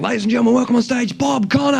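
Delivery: high, rising emcee introduction; acted show announcer call; stage announcer. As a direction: introduce the act to a big room. Acting his stage introduction.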